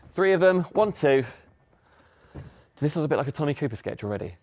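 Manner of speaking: breathless and puffing; talking short of breath after lifting boxes. Real, not acted. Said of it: "Why am I out of breath?".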